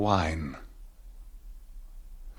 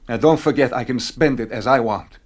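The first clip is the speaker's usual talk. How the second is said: put-on drunken defiance; 3 semitones higher, 8 dB louder than usual. Drunk husband snaps at wife.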